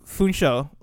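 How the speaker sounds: "Funsho" said the American way; American pronunciation. Shown as a demonstration. Speaker showing a friend how Americans say "Funsho", American pronunciation. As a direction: say "Funsho" with an American long o ending. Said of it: "the American way to say it".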